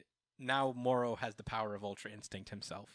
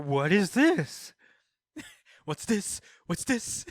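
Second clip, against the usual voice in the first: high, drawn-out mock bafflement; hammed-up, high-pitched wonder; baffled villain; 7 semitones higher, 8 dB louder, much slower than usual. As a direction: play a puzzled villain through laughter. Acting Moro baffled by the bean.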